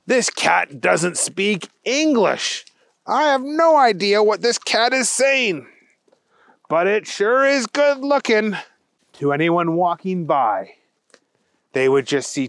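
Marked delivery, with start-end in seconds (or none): 0.0-8.6 slightly raised storybook cat voice; a hint of a puzzled cat musing; lightly voiced kitty's thoughts. Thunder Kitty thinking about the strange cat, lightly voiced. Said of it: "and thought".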